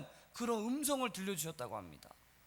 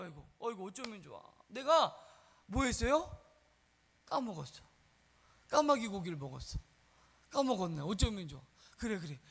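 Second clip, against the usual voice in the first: mock-dismayed pastor admitting a lapse; sheepish forgetful pastor; 4 semitones lower than usual. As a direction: own up sheepishly, low and halting. Acted forgetful pastor excusing himself.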